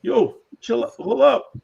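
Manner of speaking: high, loud playful shout; called-out warning. Pretend. Player from New England halting a kid, playful shout. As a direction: call out to make someone stop. Re-enacts the yell to stop kid.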